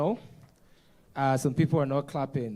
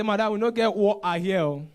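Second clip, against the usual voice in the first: higher, louder Pidgin-speaking waiter; comic raised-voice waiter; Nigerian waiter; 5 semitones higher, 5 dB louder than usual. Retold or imitated. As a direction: imitate a waiter answering back. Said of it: "The waiter said".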